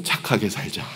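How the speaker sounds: soft, low, held-back self-talk; restrained inner voice. Retold or imitated. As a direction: swallow the anger and speak softly to yourself. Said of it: "제 마음속에 그랬죠".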